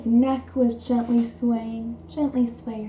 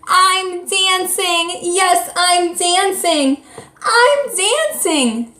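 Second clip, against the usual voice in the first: high, slow, sing-song joy; joyful cry; 8 semitones higher, 4 dB louder, much slower than usual. A narrator's reading. Gerald crying out his joy to the animals, high and sing-song. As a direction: sing it out like you finally can dance. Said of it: "Gerald cried".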